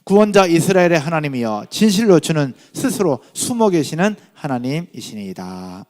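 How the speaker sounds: loud, measured scripture reading. Real, not acted. Preacher leading the congregation in a verse, loud reading. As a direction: read the verse out firmly for all to follow. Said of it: "같이 읽겠습니다".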